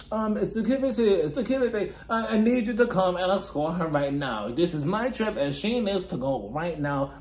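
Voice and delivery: hammed-up British housewife calling for security; mock British accent. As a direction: imitate a put-on British accent, indignant. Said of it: "with a British accent all of a sudden".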